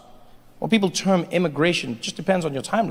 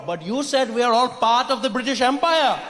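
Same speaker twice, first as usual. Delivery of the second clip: ordinary talk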